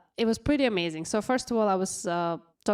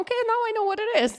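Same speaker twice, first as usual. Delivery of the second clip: laughing; 14 semitones higher, 3 dB louder, much faster than usual. Real, not acted. Laughing at own ignorance.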